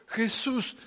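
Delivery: exclamación más aguda y fuerte, llena de asombro; Pedro emocionado. Acted. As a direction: grita asombrado al ver la higuera seca. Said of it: "Estaba emocionado". (Pedro, emocionado, le grita a Jesús al ver la higuera seca)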